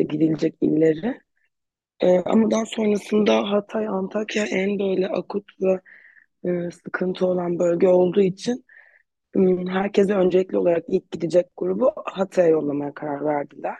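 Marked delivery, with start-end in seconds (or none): 2.0-13.8 slightly hoarse, worn voice. Real, not acted. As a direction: talk through a hoarse throat. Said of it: "biraz sesim kısık".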